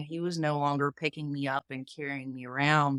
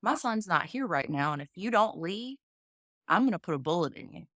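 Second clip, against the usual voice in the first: raised, higher threatening voice; menacing threat; 4 semitones higher than usual. Retold or imitated. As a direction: warn him off with the shotgun cocked. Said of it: "and he said".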